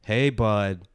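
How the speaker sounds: lightly voiced sketch husband, loud and slow; imitating Sam Hyde. Friend retells the husband confronting the host, slow loud mock challenge. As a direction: drag out a confrontational question. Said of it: "And Sam goes like".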